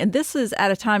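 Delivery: ordinary delivery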